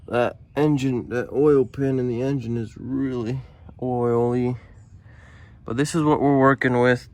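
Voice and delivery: talking while lying on the back; lying under a car. Real, not acted. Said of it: "All right, so I'm under the car".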